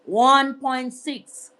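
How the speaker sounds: slow, drawn-out disbelief; astonished repetition; stunned at the price. Real, not acted. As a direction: let the number sink in slowly.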